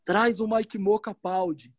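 slow, weak, halting hospital voice; faltering voice. Retold or imitated. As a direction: drag it out like an injured kid. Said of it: "Ele falou desse jeito".

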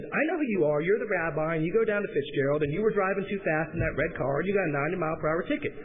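imitation Southern judge; southern accent. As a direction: lecture them in a Southern US accent. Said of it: "they spoke with a southern accent".

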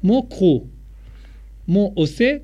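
words read in a French accent. Shown as a demonstration. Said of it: "con tu acento francés".

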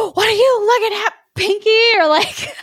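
high, squawky parrot snap; Iago impression. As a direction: snap at him like a cranky parrot. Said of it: "then he's like".

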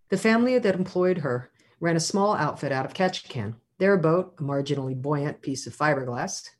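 measured literary reading aloud; story narration. A narrator's reading. Author reads a chapter to an audience, measured narration. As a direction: read it out like prose at a book reading.

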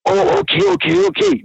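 very high mock-flustered voice; high, hurried string of okays; retold eager agreement. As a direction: imitate him giving in, squeaked high.

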